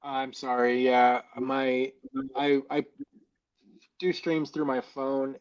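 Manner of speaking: inside a fishbowl. Real, not acted. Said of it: "you sound like you're in a fishbowl".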